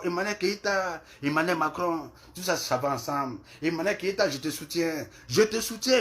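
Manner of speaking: lightly put-on voice of the supporter; a loose mock take on his cheering tone; Emmanuel Keita impression. Mimicking the supporter's shout-out to her fans, lightly voiced. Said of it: "je vais parler comme Emmanuel Keita".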